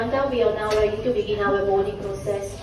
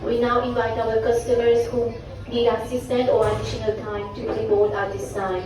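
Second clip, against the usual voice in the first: airport announcement. Real, not acted. Gate boarding call over PA.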